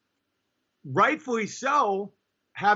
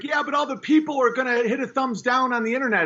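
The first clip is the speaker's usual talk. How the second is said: mocking whiny objection; 6 semitones higher, faster than usual. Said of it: "It's like".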